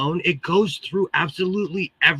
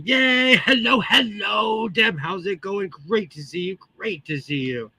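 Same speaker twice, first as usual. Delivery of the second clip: tin can voice; 2 semitones higher than usual. Real, not acted. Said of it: "I still sound like I'm in a tin can".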